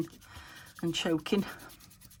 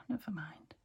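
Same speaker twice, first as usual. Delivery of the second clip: whispering; 7 dB quieter than usual. Real, not acted. Aside to herself.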